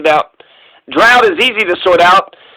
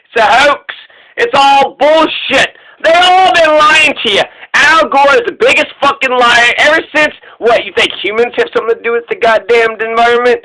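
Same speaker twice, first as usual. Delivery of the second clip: mock outraged rant; 3 semitones higher than usual. Host voicing a candidate's climate answer as a mock rant. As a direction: play a caricature climate denier blowing up.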